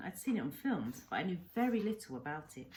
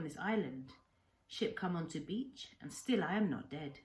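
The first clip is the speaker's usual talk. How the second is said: put-on old Japanese man, grief-laden memory; 2 semitones higher, 3 dB louder than usual. Old man telling the boy how he lost his family, subdued. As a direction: let the loss weigh on each word. Kensuke tells of shipwreck.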